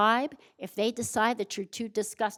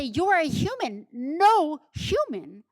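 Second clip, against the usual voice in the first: emphatic, higher and louder rescuer, slowing on "No human"; imagined rescuer; 4 semitones higher, 3 dB louder than usual. Retold or imitated. Speaker voicing a rescuer at the subway tracks, higher and emphatic. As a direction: insist like someone hauling a stranger off the tracks. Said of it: "You say".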